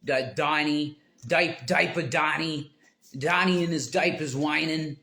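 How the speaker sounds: a hint of a thick New York accent, whining; mock New York whine. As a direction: lightly imitate a New York guy mocking diaper Donnie. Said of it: "he has that real thick New York accent".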